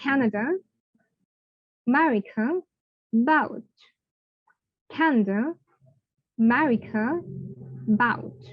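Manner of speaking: Canada, America, about said 'anəda', 'merikə', 'bout'; teacher repeats Canada, America, about; model words. Shown as a demonstration. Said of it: "I'm repeating these three words again".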